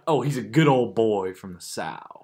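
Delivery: a playful touch of Southern twang; Southern accent. Acted. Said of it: "more of a Southern accent".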